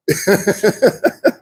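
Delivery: rippling scornful laugh; mocking laugh. Real, not acted. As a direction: laugh knowingly at their early laughing. Mocking those who laugh early.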